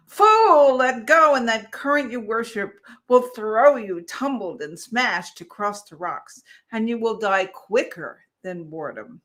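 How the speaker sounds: loud, jeering mockery; scornful crowd. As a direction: sneer at the fool. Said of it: "laughed and said".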